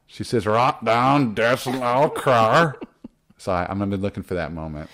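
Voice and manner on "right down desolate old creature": lightly put-on northern English accent, slow at the end; a playful stab at Hannah's northern English accent; imitating a northern accent. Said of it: "northern accent".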